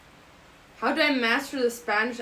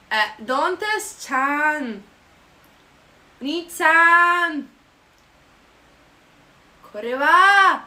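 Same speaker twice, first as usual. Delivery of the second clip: high, loud, drawn-out mock Japanese; 5 semitones higher, 7 dB louder, much slower than usual. Performing anime-style Japanese for viewers, mock squealing. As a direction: squeal the Japanese endings, stretching them out. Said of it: "I can also speak Japanese".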